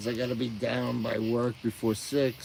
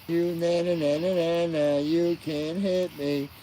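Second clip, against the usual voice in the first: mock taunt; 4 semitones higher, slower than usual. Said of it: "I'd be taunting him on the bottom".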